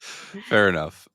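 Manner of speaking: laughing through the words; chuckling, words slowed by laughter. Real, not acted.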